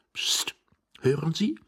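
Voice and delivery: urgent hushed voice, rising at the end; whispering. Acted. Young man hushing the man hidden beside him, whispering. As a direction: hush him and hiss a secretive question. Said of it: "flüsterte der junge Mann".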